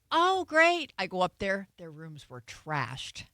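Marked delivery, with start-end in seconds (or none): 0.1-0.9 high, loud sarcastic "Oh, great.". Retold or imitated. Stepmother reacting sarcastically to the boys' claim, pitched high. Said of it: "I'm like".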